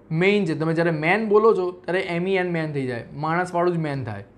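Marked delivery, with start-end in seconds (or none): 0.1-0.5 મેઇન with a clear ay glide; correct main. Shown as a demonstration. Teacher correcting મેન to મેઇન for the class. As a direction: say મેઇન as English main, ay sound. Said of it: "મેન નથી".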